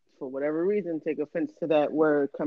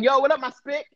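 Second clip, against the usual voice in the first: high-pitched hailing of a buddy; mock street greeting; 9 semitones higher, 3 dB louder than usual. Cohost asking if he should greet friends that way, mock hailing.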